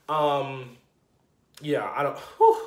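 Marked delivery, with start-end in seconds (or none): 2.2-2.6 whew. Real, not acted. Overwhelmed exhale mid-reaction.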